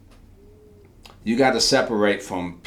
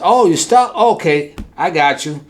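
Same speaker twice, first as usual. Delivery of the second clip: sudden much higher, louder "Oh"; eager helper; 7 semitones higher, 7 dB louder than usual. Acted. Helper answering the trapped man, high eager reassurance. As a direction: jump in ready to help.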